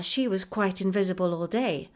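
ordinary delivery

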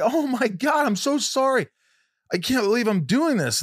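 high, choked apology through tears; retold teary apology. Apologizing to a friend while crying, high teary voice. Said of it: "I got so mad at myself".

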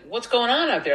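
high-pitched query from a curious woman; Jennifer Aniston. Acted. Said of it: "And she's like".

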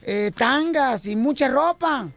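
slow, drawn-out pleading as the wife; lightly voiced wife, lingering on every wish; imitated wife. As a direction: wheedle slowly, stretching the words. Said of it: "luego me dice mi esposa".

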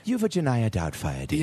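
lightly put-on British old lady; mock British accent. Doing Missus Doubtfire, mock British accent. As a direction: do a rough British nanny voice. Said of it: "she was supposed to be British".

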